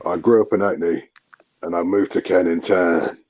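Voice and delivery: lightly voiced Idris Elba, London accent; a relaxed London accent. London accent, doing Idris Elba for friends. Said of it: "I can do an Idris Elba one".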